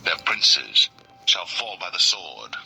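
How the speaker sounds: hushed scripture reading; whispered scripture. Real, not acted. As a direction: read the verse in a whisper.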